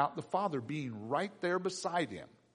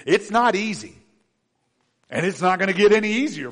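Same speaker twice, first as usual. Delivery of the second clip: emphatic preaching; 7 semitones higher, 9 dB louder than usual. Real, not acted. Preaching at full force.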